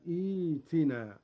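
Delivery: "إيتنا" begun with a long ee, eetinaa; second hamza replaced. Shown as a demonstration. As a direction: start "إيتنا" on hamza plus long yaa. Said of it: "نبدأ بإبدال الهمزة الثانية". (إبدال الهمزة الثانية ياء في "إيتنا")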